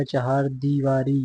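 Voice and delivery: चहार दीवारी slowly, with clear cha-haar; correct form चहार दीवारी. Shown as a demonstration. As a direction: draw out चहार दीवारी word by word. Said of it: "ऐसे लिखा जाएगा". (चहार दीवारी, धीरे-धीरे और साफ़)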